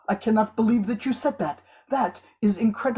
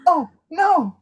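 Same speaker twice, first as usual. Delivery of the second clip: dramatic; 6 semitones higher, 4 dB louder than usual. Acted. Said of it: "Very dramatic".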